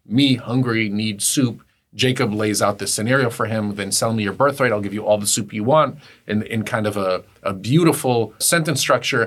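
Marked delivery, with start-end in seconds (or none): 0.1-1.6 broken, caveman-style speech. Retelling the Jacob and Esav story, Esav speaking like a caveman. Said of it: "Esav speaks like a caveman".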